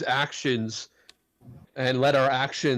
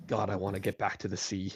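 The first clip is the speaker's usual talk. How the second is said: soft wistful murmur; 3 semitones lower, 7 dB quieter than usual. Acted.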